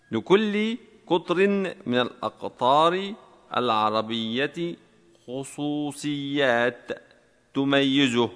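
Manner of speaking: slow, measured dictation for typing students; slowly dictated exercise sentence; dictation reading. Shown as a demonstration. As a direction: read it out word by word, drawing out the syllables.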